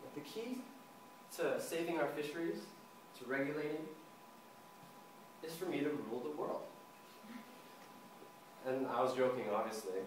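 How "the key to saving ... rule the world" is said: serious voice. Retold or imitated. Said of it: "in my most serious voice".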